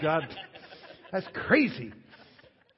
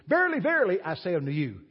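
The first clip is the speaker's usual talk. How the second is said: solemn Jesus; 2 semitones higher, 4 dB louder than usual. Retold or imitated. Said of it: "He starts it out like this".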